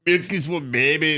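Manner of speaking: put-on lightly done Austrian accent; a hint of Arnold's Austrian vowels; Arnold Schwarzenegger. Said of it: "Arnold impersonation".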